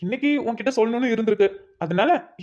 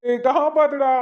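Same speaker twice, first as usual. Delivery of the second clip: pleading; 3 semitones higher than usual. Acted. Begging attacker to stop.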